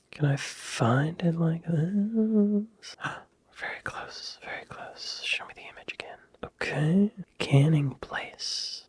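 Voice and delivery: hushed search, barely voiced; breathy under-the-breath muttering; whisper. Real, not acted. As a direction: whisper to yourself while hunting the map. Searching map quietly.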